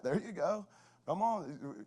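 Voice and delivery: high-pitched teasing cheer; playful heckling. Retold or imitated. Coach riling up his frustrated son, playful high heckle. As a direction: needle him with mock encouragement. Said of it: "I'll, I'll heckle 'em".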